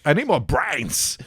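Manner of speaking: slow, high, strange zombie drawl; zombie Walken. Pretend. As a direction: stretch it out like a dazed zombie. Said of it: "Christopher Walken if he was a zombie".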